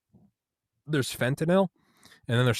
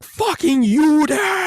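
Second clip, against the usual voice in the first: very high, slow, shrieking rage; demonic scream; 10 dB louder, much slower than usual. Retold or imitated. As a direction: scream it like a possessed man.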